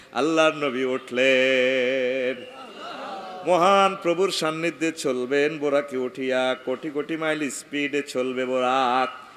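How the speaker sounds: melodic waz chant, drawn-out line endings; intoned sermon narration. A narrator's reading. Preacher telling the congregation of Buraq meeting the Prophet, intoned. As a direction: recite the story in a steady sing-song.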